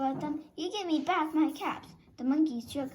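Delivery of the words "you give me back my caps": scolding. Acted. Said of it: "he said, shaking his finger".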